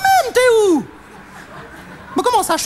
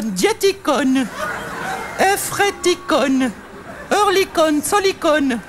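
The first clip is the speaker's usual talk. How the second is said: slow reading; 3 semitones lower, much slower than usual. Acted. Reading station names slowly.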